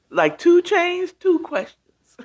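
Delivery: high, slow, laughing through it; giggling. Real, not acted. Giggling over a viewer's name.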